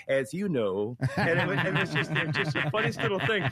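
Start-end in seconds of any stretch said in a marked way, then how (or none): 0.1-1.0 "As you know" with "As" and "you" kept apart; Jimmy Carter, careful enunciation. Retold or imitated. Guest recalling the governor's reply, over-enunciated. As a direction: say "As you know" deliberately, leaning on "you". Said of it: "he says".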